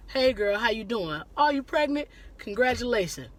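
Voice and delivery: a bright, kind congratulation; friendly greeting demo. Shown as a demonstration. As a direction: show how to greet her nicely. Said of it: "I say keep it brief".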